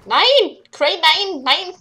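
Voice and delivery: sharp rising cries of no at the screen; alarmed shout. Real, not acted. Gamer yells at his character Crane, alarmed. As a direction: shout no as your character messes up. Player watching character do wrong.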